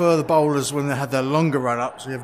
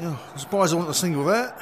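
breathless, puffing between words; out of breath; 3 semitones higher than usual. Real, not acted. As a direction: talk while catching your breath. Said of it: "I'm out of breath already".

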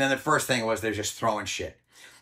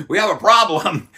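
high, loud holler of a name; hollered call; 7 semitones higher, 8 dB louder than usual. Retold or imitated. Photographer hollering downstairs to Bill, high and loud. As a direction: call down the stairs to him. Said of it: "they'd holler downstairs".

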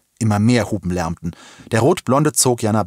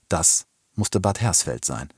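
usual speaking voice

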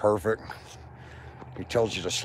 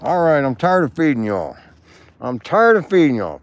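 loud, higher call to the squirrels; 3 semitones higher, 6 dB louder than usual. Real, not acted. Man calling out to the park squirrels, loud. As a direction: call it out to the animals across the park.

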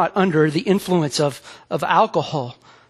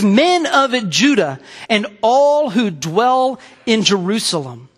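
raised voice; 3 semitones higher than usual. Acted. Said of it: "lifted up his voice and addressed them".

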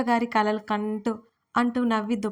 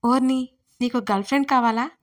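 amused surprise, a different lively voice; surprised; 3 dB louder than usual. Acted. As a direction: caught off guard, teasing the pet. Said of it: "ఆశ్చర్యపోయింది ఆకృతి".

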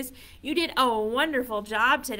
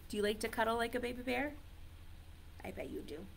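ordinary talk, nothing marked

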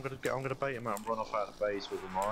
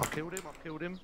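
high, fast thrilled burst; excited; 9 semitones higher, faster than usual. Real, not acted. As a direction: blurt it out, thrilled. After killing enemy.

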